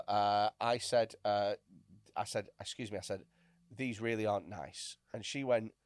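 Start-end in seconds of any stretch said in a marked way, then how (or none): 2.6-5.0 soft, meek excuse me; timid quiet. Retold or imitated. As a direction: say it timidly, barely there. Meek complaint retold.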